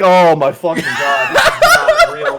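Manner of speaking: put-on mortified teen laughing in shock; laughing disbelief. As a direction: laugh it out like it can't be happening. Disbelief at the scene.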